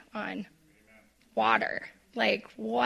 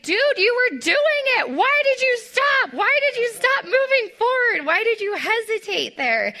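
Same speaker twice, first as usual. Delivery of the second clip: Jesus voice; 12 semitones higher, 7 dB louder than usual. Retold or imitated. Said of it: "And Jesus is like".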